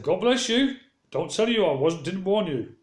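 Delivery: held-back blessing. Retold or imitated. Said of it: "So I held my temper".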